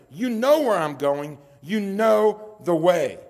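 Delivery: firm, slowing down on "You know the way"; emphatic. Retold or imitated. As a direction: press each word home, lean on "know". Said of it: "em-, emphatically".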